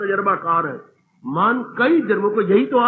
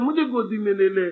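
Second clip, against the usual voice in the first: put-on jealous child; 5 semitones higher, 3 dB quieter than usual. Child voiced complaining.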